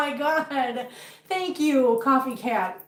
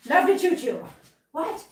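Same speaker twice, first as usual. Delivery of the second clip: high, sing-song coo to a pet; 6 semitones higher than usual. Real, not acted. Talking to her cat.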